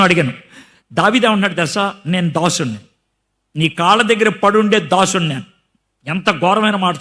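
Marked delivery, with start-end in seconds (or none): 2.1-5.4 mock a groveling servant, hushed; humble pleading. Preacher voicing David groveling to the king, humbly hushed. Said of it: "దీనంగా మాట్లాడుతూ".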